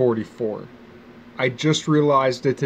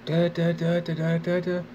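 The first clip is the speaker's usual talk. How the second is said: counting under breath; 6 semitones higher than usual. Retold or imitated. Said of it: "and I was like".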